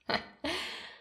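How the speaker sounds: short breath of a laugh; teasing chuckle. Acted. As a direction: let out a soft, amused huff. Teasing his wife.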